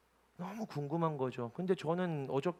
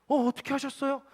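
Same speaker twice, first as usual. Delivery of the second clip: high-pitched startled question; acted-out astonishment, pitch leaping up; retold surprise; 12 semitones higher, 6 dB louder, faster than usual. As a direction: imitate someone amazed at being found out. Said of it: "저는 더 놀라요".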